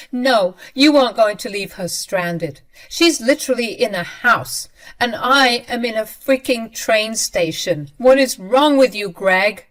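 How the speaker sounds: loud, sarcastic angry snap; angry retort. Retold or imitated. Wife furious at husband for leaving her stranded, loud. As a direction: throw his words back at him.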